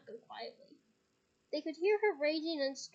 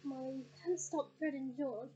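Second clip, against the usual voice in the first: weary. Acted. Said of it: "said Mister Weasley wearily".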